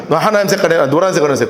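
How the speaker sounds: ordinary delivery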